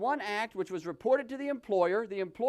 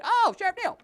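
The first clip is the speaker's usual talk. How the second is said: mock exasperation; 9 semitones higher, 5 dB louder, faster than usual. Mock sigh at the sheriff.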